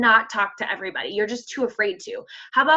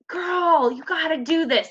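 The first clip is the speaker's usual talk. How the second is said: put-on higher, playful "girl" voice to a friend; sassy girlfriend talk; 6 semitones higher than usual. Coach voicing her own invite to a friend, playful higher sass. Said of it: "I, like, talk like that".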